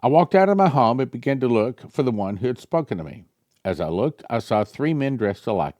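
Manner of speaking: lightly heightened prophetic reading; reading prophecy aloud. Acted. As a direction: read the vision out like a revelation. Reads prophecy.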